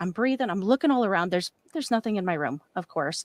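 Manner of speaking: usual speaking voice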